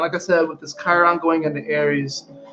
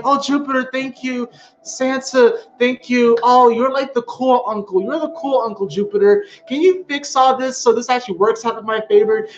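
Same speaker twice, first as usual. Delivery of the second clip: pleading fan; 4 semitones higher than usual. Retold or imitated. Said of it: "be like".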